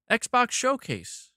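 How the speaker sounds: slow, drawn-out mock event announcer; mock announcement. Streamer mocking the Xbox Showcase to chat, slow sarcastic announcer drawl. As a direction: drag out the name like a sarcastic hype intro.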